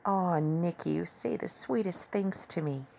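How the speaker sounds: high, playfully sweet coo; chuckling, amused. A narrator's reading. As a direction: tease fondly in a woman's voice. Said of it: "Tammy said with a chuckle".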